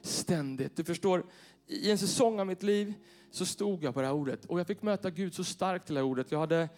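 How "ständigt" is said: slow solemn scripture reading. Real, not acted. Rereads key verse slowly.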